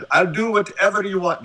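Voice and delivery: lightly put-on African accent for an agreeable player; Embiid impression. Podcaster imagines Embiid agreeing to play alongside LeBron, loose African accent impression. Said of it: "make him sound like the guy from The Air Up There".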